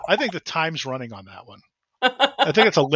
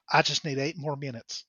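sleepy murmur; 7 dB quieter than usual. Retold or imitated.

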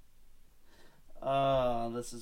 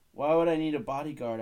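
louder, puzzled question; indignant question; 4 semitones higher, 8 dB louder than usual. Acted. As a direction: demand to know why. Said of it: "asked Know-It-All".

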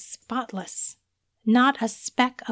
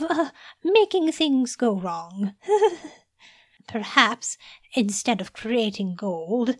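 nervous giggling; 5 semitones higher, 3 dB louder than usual. Acted. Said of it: "Humphrey giggled again".

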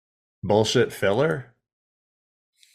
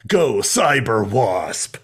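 mock battle cry; much slower than usual. Mock robot battle call.

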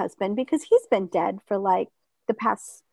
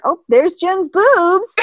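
amused; 8 semitones higher, 7 dB louder, slower than usual. Retold or imitated. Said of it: "it's like".

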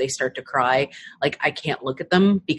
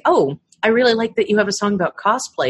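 fan voice; 6 semitones higher, 4 dB louder, faster than usual. Retold or imitated. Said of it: "People come up and say".

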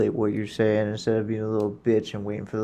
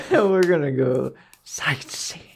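slow, breathy whispered repeat of the joke; whispered echo; 3 semitones higher, slower than usual. Acted. Friend whispers the gamer's joke back, slow and hushed.

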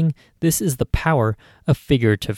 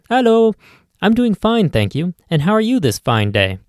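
a lightly voiced, higher, polite customer; sweet, higher customer reply; lightly voiced regular answering the deli clerk; 7 semitones higher, 3 dB louder than usual.

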